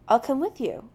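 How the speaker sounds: quick and eager. A narrator's reading. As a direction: jump in eagerly. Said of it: "almost eagerly".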